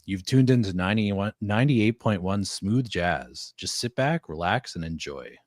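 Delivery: a hint of a silky late-night DJ; lightly voiced mellow radio host; smooth jazz radio host. Shown as a demonstration. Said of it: "Sadie wants me to say something".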